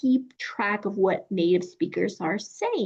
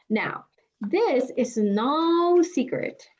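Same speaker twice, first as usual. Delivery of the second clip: whispering; 3 semitones higher, slower than usual. Acted. Teacher's dramatic aside.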